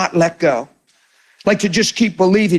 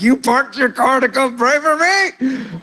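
amazed; 3 semitones higher, slower than usual. Retold or imitated. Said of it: "They're like".

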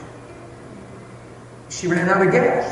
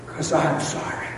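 soft remorse; 5 dB quieter than usual. Retold or imitated. Husband's remorse, softly voiced.

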